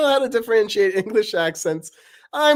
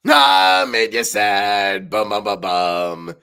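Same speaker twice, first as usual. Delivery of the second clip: Knife's voice; 8 semitones lower, 8 dB louder, slower than usual. Acted. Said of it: "Paper and Knife talking".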